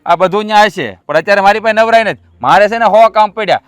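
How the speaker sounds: curt, loud refusal; irritated. Acted. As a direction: wave him away crossly. Brothers quarrel over money.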